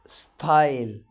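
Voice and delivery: ستايل whispered with a clear ai; whispered model word. Shown as a demonstration. Teacher models a word for students, whispered. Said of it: "تحاول تنطقها".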